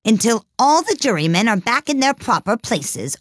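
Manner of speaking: grave insistence. A narrator's reading. King staring hard at Alice, grave and insistent. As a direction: insist solemnly on every word. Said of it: "in a very grave voice".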